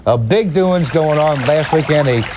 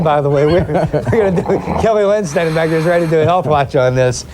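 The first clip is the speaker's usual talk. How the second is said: anchor stifling giggles; 3 semitones lower, faster than usual. Real, not acted. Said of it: "I needed a good laugh".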